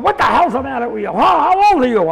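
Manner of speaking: mock-irate interrogation; scolding. Old man scolds him in car.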